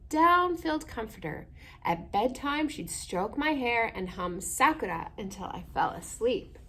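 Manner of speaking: measured storybook narration; reading to children. Acted. Reading picture book aloud.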